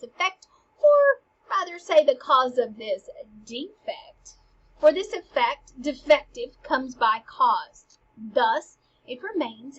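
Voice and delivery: put-on loud, pompous old courtier declaiming verse; theatrical Polonius. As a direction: hold forth like a windbag who loves his own voice.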